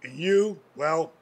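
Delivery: deadpan. Retold or imitated. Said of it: "I just deadpanned him".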